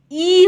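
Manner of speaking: long drawn-out ई, as in "see". Shown as a demonstration. Teacher showing how E is pronounced, long ई. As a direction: hold ई as a long vowel. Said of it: "बड़ी ई होगा".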